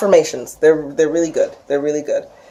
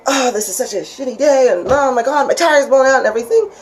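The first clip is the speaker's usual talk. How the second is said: mock whiny complaint; 8 semitones higher than usual. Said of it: "instead of going".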